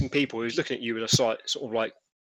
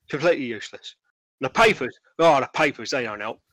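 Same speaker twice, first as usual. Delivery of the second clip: lightly voiced trader, mildly exasperated; disgruntled stallholder; 5 dB louder than usual. Stallholder complaining to a reporter about police, disgruntled. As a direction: complain with emphatic, louder bursts.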